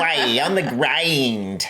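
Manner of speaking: drawn-out, slow mock upper-class accent; exaggerated upper-class British accent; mock posh accent. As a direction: stretch the vowels like a caricature aristocrat. Imitating posh drawn-out vowels.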